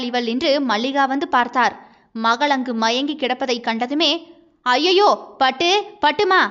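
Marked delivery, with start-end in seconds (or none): 4.7-6.4 higher-pitched panicked calling out; alarmed cry. Acted. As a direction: call out in alarm to rouse her. Mother finds daughter fainted. (பதறிப்போய் அழைக்கும் குரல்)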